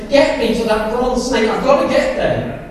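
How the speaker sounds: mild mock urgent shout; urgent call. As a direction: call to family to be carried fast. Shouting to family, bitten.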